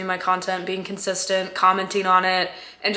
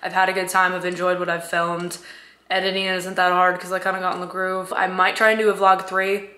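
voice cracking. Real, not acted. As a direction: voice cracking now and then. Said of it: "Sorry about the voice cracks".

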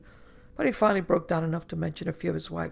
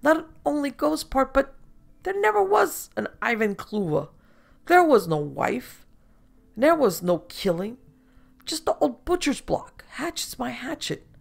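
high, loud, tipsy showman gloating over his hoax; boozy carnival showman bragging it was all fake; drunk foreign showman; 7 semitones higher, 5 dB louder than usual. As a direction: play him drunk and pleased with his own joke.

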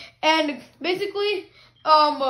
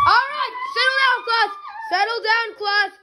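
calling out; 6 semitones higher than usual. Pretend. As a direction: call the class to order. Teacher calming noisy class.

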